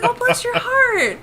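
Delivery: high, slow, sweetly meant bless your heart; sweet sincere. Retold or imitated. Retelling her innocent reply to a viewer, sweet and sincere. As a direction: say "bless your heart" as a truly kind thank-you. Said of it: "I thought that would be a nice thing to say".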